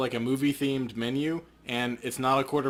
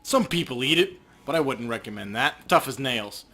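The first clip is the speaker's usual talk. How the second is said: a hint of a rude butcher, louder; surly shopkeeper; 3 dB louder than usual. Manny the butcher snaps at Paco, surly. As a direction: brush off the customers with contempt.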